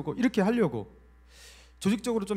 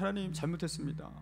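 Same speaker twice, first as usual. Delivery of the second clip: soft, subdued confession; contrite prayer; 6 dB quieter than usual. Retold or imitated. Pastor repents before God, softly contrite. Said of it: "눈물을 흘리면서 회개했어요".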